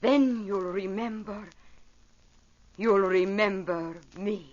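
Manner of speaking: slow, tender spoken farewell line; a singer speaking her closing lyric; spoken song lyric. Acted. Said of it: "spoke the last words of one of her songs".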